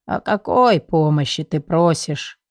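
put-on weary old spirit. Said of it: "дух устало вздохнул". (устало, тихо и медленно, голос духа)

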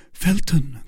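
high-pitched call of a name; Milady crying out. Acted. Milady hailing Felton in admiration, high-pitched. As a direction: exclaim his name in a high voice. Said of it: "cried she".

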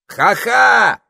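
high loud call; parrot shouting. A narrator's reading. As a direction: call out the wizard's name. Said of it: "крикнул попугай".

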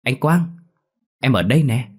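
high, loud camp calling voice; effeminate voice. Acted. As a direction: call out sing-song and camp. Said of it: "nói bằng cái giọng ẻo lả".

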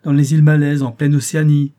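put-on a young man's thrilled exclamation; excited exclaim. A narrator's reading. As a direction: announce it with rising excitement. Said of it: "m'écriai-je".

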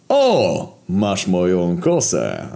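light up at a lost possession returned; delighted. Acted. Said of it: "ucieszył się śmierć".

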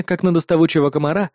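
plain reading voice

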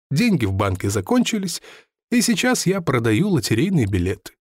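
lightly voiced lottery seller. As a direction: recount lost riches with mild bitter pride.

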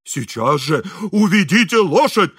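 loud, outraged house manager; hysterical shouting. A narrator's reading. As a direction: demand it in a hysterical yell. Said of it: "истерически кричал управдом". (истерический крик управдома)

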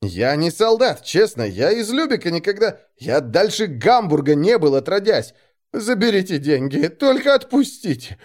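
high, whimpering plea; whining. A narrator's reading. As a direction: feign tearfulness while begging for release. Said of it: "захныкал я и даже сумел подпустить слезу".

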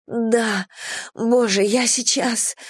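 on the brink, drawn out; urgent. Acted. A woman warning her lover, urgent.

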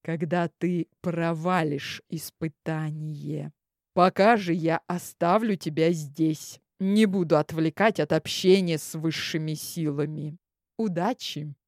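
courteous priest voice. Acted. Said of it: "любезно ответил жрец".

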